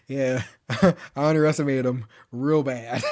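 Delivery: giggling while quoting a character; can't keep a straight face on the line; a laugh breaking into the retold reply; laughing through the quote. Retelling Katana Man's reply, laughing.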